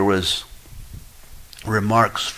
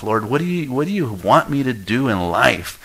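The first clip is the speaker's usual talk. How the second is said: pleading prayer; 4 semitones higher than usual. Pretend. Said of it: "You ought to be pleading".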